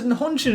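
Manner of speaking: "Nihonjin" said loosely with English sounds; anglicised Japanese. Real, not acted. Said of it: "I'm saying it really badly 'cause I'm not trying to speak in a Japanese accent".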